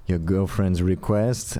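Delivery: put-on slow light Nigerian accent; a hint of a Nigerian accent, drawn out. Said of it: "I like how your Nigerian accent is".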